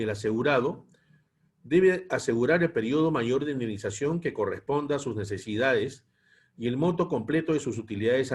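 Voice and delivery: measured lecture read-aloud in phrases; formal, evenly paced reading from a text. Real, not acted. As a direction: read the policy text out to a class. Reads the lesson text aloud.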